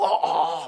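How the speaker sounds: hoarse, strangled, voiceless croaking grunts. Retelling losing the voice after days of yelling: imitating a lost, hoarse voice. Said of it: "내가 뭔 소리인지를 모르겠는 수준".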